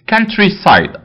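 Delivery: countryside said slowly, stress on COUN; teacher drilling countryside; careful pronunciation. Shown as a demonstration. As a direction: model countryside clearly for students. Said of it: "اوعى تقولها country".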